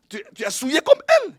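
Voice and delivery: rebuking voice of God. Retold or imitated. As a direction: hammer home the rebuke.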